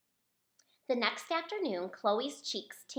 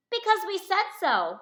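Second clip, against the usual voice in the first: higher, louder snotty reply; bossy retort; 8 semitones higher, 8 dB louder than usual. Acted. Boy answers Chloe, loud and snotty. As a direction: throw it back dismissively. Boys refusing bluntly.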